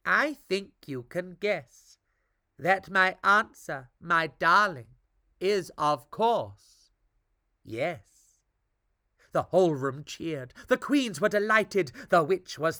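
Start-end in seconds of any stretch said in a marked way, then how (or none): 0.0-8.4 careful. Acted. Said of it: "Tom said carefully".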